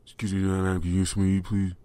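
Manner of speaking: a mock pleading ask for food; imitating the homeless man's plea. Mimicking the man outside the store, pleading. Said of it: "He goes".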